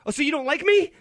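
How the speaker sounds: high, loud mock whine; whiny, childlike. Host parodies the culture's response to disagreement, whiny. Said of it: "it's this whiny, childlike response".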